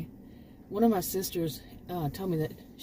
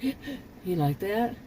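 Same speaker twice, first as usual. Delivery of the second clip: sharp gasp mid-sentence; demonstrated gasp; 2 semitones higher than usual. Shown as a demonstration. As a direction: suck in a quick breath. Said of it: "catch your breath".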